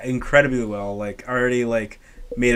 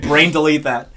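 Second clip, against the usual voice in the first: mock desperate plea; 3 semitones higher, 10 dB louder, slower than usual. Retold plea after seeing a spoiler.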